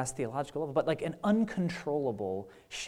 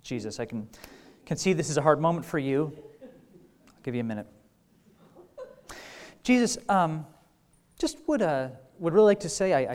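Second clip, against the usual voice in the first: pushy pretend counselor; 3 semitones higher, 6 dB louder than usual. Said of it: "what if it went something like this?".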